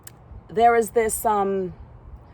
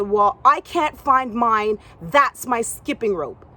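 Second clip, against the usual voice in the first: insisting; 4 dB louder, slower than usual. Retold or imitated. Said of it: "She said".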